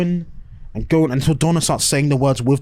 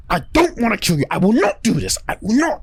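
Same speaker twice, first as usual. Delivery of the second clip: raised, pleading refusal with a touch of anguish; emotional Doctor; 7 semitones higher than usual. Retold or imitated. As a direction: play the Doctor begging not to do it. Doctor refuses to kill Donna.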